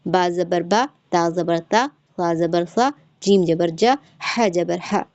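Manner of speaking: low-toned recitation drill with each final vowel cut short; short unstretched vowels. Shown as a demonstration. Teacher showing students how to read zabar, short unstretched vowels. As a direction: end "बा", "ता", "सा", "जा", "ह" on a brief vowel, no stretch. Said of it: "इनको जल्दी अदा करना है".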